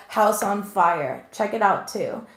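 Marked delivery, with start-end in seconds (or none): 0.1-1.3 slow, deliberate repeat of the words. Shown as a demonstration. Reader repeating the spirit's words to viewers, slow and deliberate. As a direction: spell out the message slowly. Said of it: "They literally just said".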